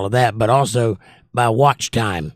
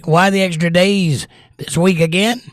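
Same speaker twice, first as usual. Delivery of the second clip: whisper; 6 semitones higher than usual. Pretend. Viewer's question read aloud.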